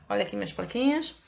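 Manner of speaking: ordinary talk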